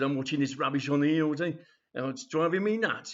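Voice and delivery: exasperated grandad, mildly shouty; grumpy telly shouting. Acted. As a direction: grouse loudly at the telly, lightly acted. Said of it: "Why do you shout at the telly".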